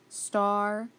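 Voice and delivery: "Starvation" split into star, va, shun; sounded out by syllable. Shown as a demonstration. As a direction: break "Starvation" apart, long a in the middle. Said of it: "So star".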